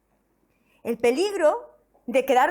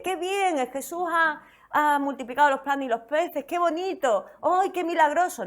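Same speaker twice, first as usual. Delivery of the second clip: mock naive delight; 3 semitones higher than usual. Mocking a naive crowd view.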